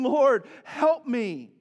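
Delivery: slow, drawn-out cry for help, retold; desperate plea. Woman kneeling before Jesus, retold desperate plea. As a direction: stretch each word in a measured plea. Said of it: "she cries out in desperation".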